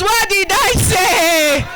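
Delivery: slow shouted "what did I say?" with a falling end; rousing call to the crowd. Shown as a demonstration. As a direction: call it out slowly to make the women answer with conviction. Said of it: "You should say it like you're convinced".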